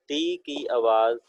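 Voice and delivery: slow, drawn-out ٹی کی آواز. Shown as a demonstration. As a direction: stretch ٹی کی آواز out slowly for the class.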